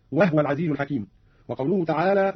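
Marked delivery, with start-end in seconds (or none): 0.1-1.1 "وهو" said "wahwa"; no vowel after the h of "وهو"; silent-vowel ha. Shown as a demonstration. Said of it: "قرأ قالون بإسكان الهاء". (إسكان الهاء في "وهو")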